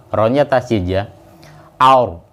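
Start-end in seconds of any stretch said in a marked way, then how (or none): 1.8-2.3 aur with a heavy, rounded ro; thick tafhim ro. Shown as a demonstration. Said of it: "sekarang baca tafhim ya". (ro tebal dengan bibir dibulatkan pada aur)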